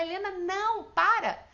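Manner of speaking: high, loud alarmed call; retold shout. Mother stopping daughter running toward a car, retold shout. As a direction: re-enact yelling to stop a child. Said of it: "Na hora eu gritei com ela".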